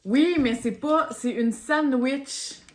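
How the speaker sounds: excited. Real, not acted. Excited about the Oreo candy.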